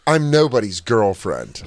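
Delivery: slow, stern imitation; mock-serious, measured rebuff; overly serious. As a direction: deliberately take offence, slowly. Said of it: "So serious for no reason".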